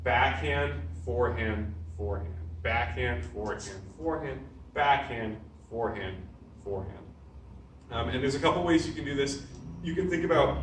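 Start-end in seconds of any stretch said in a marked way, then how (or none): 0.1-7.0 rhythmic calls of each strike, dropping away at the end of each set; drill calls. Shown as a demonstration. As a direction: call out the combo as you hit. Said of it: "calling strikes while drilling".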